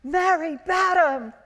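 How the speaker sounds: high, loud Scottish call; broad Scottish accent. Retold or imitated. Old studio guard hailing a returning friend, broad Scottish accent. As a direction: holler it out, stretched, in broad Scots. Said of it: "very broad Scottish accent".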